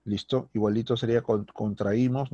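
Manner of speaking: normal talking voice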